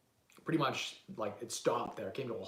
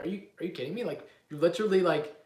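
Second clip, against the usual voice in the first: disbelieving; 4 semitones higher, 4 dB louder than usual. Retold or imitated. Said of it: "I'm like".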